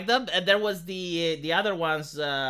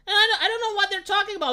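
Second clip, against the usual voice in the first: laughing; 12 semitones higher, faster than usual. Real, not acted. Laughing dismissal.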